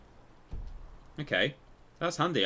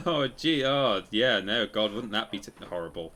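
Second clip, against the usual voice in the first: mock-laugh it off, then let it fade back down; lightly laughing mock protest, tailing off; retold laughing dismissal; 5 dB louder than usual. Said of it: "so she laughed".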